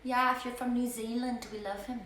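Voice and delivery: mock New Zealand accent, hammed up for laughs; attempted New Zealand accent. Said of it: "That was South African".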